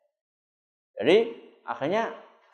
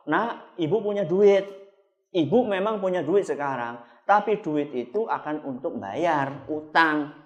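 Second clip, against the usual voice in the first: gentle explaining. Acted. Parent gently explains to child.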